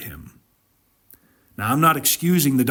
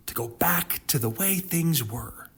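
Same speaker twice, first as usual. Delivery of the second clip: soft whispered longing; wistful whisper; 2 semitones higher, 6 dB quieter than usual. Acted. Preacher describing Lot's wife's longing, whispered. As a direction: breathe it as a longing.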